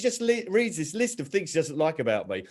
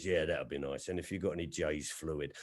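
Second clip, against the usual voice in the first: mum's voice; 8 semitones lower, 11 dB quieter than usual. Retold or imitated. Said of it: "She goes".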